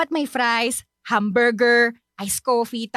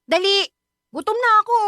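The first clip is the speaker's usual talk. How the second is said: impatient demand; 7 semitones higher, 4 dB louder than usual. Acted. Hungry friend demanding food.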